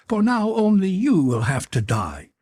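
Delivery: high-pitched creature pronouncing doom; menacing creature. A narrator's reading. Creature sentences the intruder to death, menacing. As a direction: threaten him in a high monster voice.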